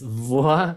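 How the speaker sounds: VOYAGER broken up as "vwa-ya-zhé"; pronunciation demo. Shown as a demonstration. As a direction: say "voyager" syllable by syllable. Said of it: "un tip para pronunciar la palabra voyager".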